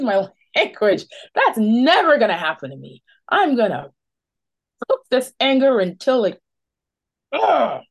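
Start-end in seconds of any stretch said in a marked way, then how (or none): 1.3-6.4 a touch of real anger, a bit louder; angry. Real, not acted. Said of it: "You can tell how angry I am". 7.3-7.8 short angry ugh, high and loud; frustrated groan. Real, not acted. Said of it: "You can tell how angry I am".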